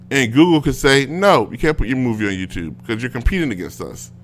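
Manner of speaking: worked-up rant. Real, not acted. Host complaining about Google blocking rivals, worked up. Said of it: "when I'm yelling about Google".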